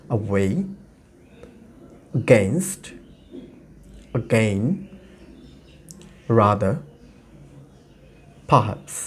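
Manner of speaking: low, separate model words with weak vowels in "away, against, again, rather, perhaps"; schwa demonstration. Shown as a demonstration. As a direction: give "away, against, again, rather, perhaps" for repeating, long pauses, unstressed syllables reduced. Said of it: "আমি এই শব্দগুলো আবার উচ্চারণ করি". ("away, against, again, rather, perhaps" দুর্বল শোয়া সাউন্ডে থেমে থেমে বলা)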